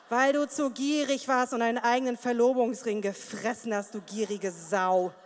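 low, slow contempt; mock insult. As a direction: spit the insult out slowly. Continued imagined insult.

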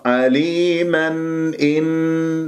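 عليما إن slowly, with a clean n before the hamza; clear izhar. Shown as a demonstration. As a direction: chant عليما then إن, no nasal merging. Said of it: "بهذه الطريقة". (عليما إن بإظهار النون)

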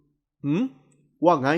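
low male reply with a touch of concern; slightly worried. A narrator's reading. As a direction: answer low, faintly anxious. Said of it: "น้ำเสียงของเขามีความกังวลเจือบางๆ".

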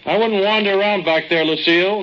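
loud calling warning. Acted. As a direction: shout the warning down the tunnel. Calling into cave to Lucille.

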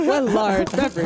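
stiff robotic order. Retold or imitated. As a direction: order it like a machine. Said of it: "in a robotic voice".

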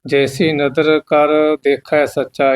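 slow reading, stopping at ਸੱਚਾ; pause after ਸੱਚਾ. Shown as a demonstration. Teacher showing where to rest, pause after ਸੱਚਾ. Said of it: "ਇੱਥੇ ਵਿਸ਼ਰਾਮ ਲਾਉਣਾ".

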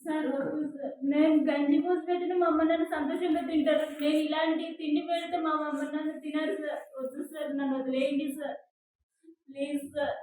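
begging him to leave her alone, fading to near silence; desperate begging. Acted. Employee begging boss to stop.

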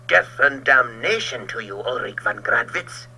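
loud bitter curse. Acted. Georg cursing trapped rival Ulrich, bitter loud curse. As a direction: hurl the curse at him. Enemies cursing each other.

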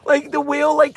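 drawn-out high wail, slowed right down; replaying her own teary reaction, mock-wailing; retold wail. Telling viewers how she reacted to the whale, in a slow high wail. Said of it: "And I was like".

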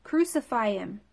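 high, loud mob cry; crowd shouting. A narrator's reading. Crowd of priests shouting at Pilate, loud and high. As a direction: yell it as the mob demanding death. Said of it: "But they shouted".

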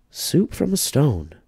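put-on high, slow, amazed old lady; little old lady, marvelling. A narrator's reading. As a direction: savour the wonder of it. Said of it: "said the little old lady".

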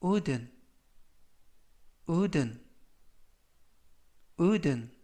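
careful vocabulary drill, one word at a time; measured teacher's demonstration with long gaps; slow model reading. Shown as a demonstration. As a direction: read it out slowly for learners to repeat. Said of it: "천천히 세 번씩 읽어드리고요".

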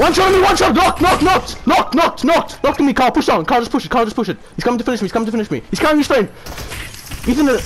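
frantic high shouting; hyped gamer bro. Real, not acted. Knocked in a fight.

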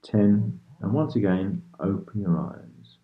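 calm hypnotist counting with long pauses; unhurried sleep-meditation guidance; guided meditation. Real, not acted. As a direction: lead a listener gently into relaxation, leaving space after each phrase.

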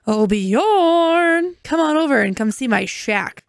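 high, breathy-free flirty call to Bjorn; flirty Sim voice. Pretend. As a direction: sing his name out like a lovesick neighbour.

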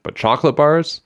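high, loud incredulous question; exasperated rising protest; angry. A narrator's reading. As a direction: shoot the pitch up in outrage. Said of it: "Lefty said in an angry way".

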